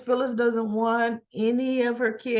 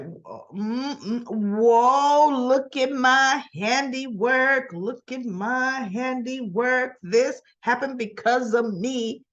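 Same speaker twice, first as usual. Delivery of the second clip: lightly voiced smug admirer, drawn out; slow, sing-along gloat over your own work; 3 semitones higher, much slower than usual. Phyllis walks up to admire her handiwork, gloating.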